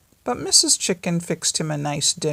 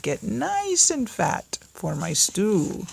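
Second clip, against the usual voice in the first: slow and higher wolf voice; wolf's last gloat, pitched higher; 5 semitones higher, slower than usual. Acted. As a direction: stretch out nice, savouring.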